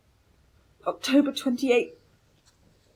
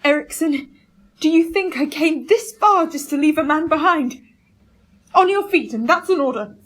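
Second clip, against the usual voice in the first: loud, forceful captain's order; commanding shout; 5 semitones higher, 6 dB louder than usual. Acted. Captain shouting at fallen Ericsson, loud command. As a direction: bark him back onto his feet.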